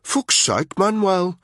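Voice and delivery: high, loud contemptuous sneer; scornful soldier sneering at the driver; unpleasant sneer. A narrator's reading. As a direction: sneer the name at him. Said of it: "he said with an unpleasant sneer".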